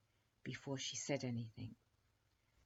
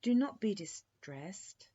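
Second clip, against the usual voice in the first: resigned; 5 semitones higher, 7 dB louder, slower than usual. Acted. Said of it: "in a resigned tone".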